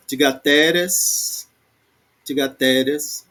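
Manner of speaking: tigateres with TE stressed and drawn out; stress on penultimate. Shown as a demonstration. Teacher trying the plural accent, penultimate stress on tigateres. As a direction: lean on the TE in tigateres. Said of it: "tigateres também tá na penúltima".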